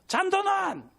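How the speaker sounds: high-pitched demanding shout; mother's yell. Retold or imitated. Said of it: "엄마가 고함을 칩니다".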